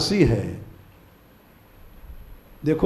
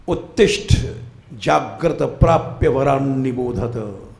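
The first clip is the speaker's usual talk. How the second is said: mildly forceful imitation of a professor's chant; ज़ोरदार मंत्र-पाठ की नकल; 2 semitones lower than usual. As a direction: recite the Sanskrit like a rousing professor, slightly restrained. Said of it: "बड़े जोर से कहते थे". (Professor की तरह कुछ ज़ोर से मंत्र बोलते हुए)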